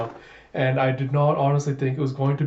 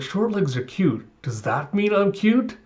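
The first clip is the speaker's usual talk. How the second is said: a hint of a child, pitched higher; hopeful question, lifting at the end; lightly voiced little girl; 6 semitones higher than usual. Small girl asks whether short legs make her cute, lightly childlike.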